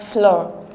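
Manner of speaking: floor said slowly as one drawn-out syllable; pronunciation demo. Shown as a demonstration. Teacher reading option C for transcription, slow careful floor. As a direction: stretch floor so the F and L show. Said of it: "Then option C".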